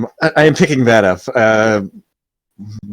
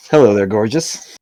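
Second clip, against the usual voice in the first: flirty; 3 semitones lower than usual. Acted. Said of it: "your cat's a flirt".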